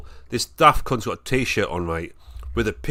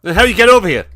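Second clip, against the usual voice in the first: loud, higher mock heckler question; 6 semitones higher, 10 dB louder, much faster than usual. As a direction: parrot the heckler louder.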